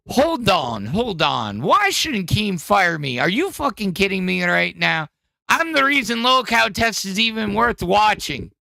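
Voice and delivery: put-on a rough, half-hearted Welsh accent for an angry podcast host; attempted Welsh accent. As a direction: lean into the mic and try a Welsh accent. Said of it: "I can't do a Welsh accent".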